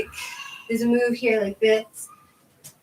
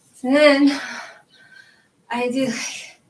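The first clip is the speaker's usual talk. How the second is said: breathless from stretching; out of breath, panting between words; 3 semitones higher, 3 dB louder, slower than usual. Real, not acted. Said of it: "I'm already, like, out of breath".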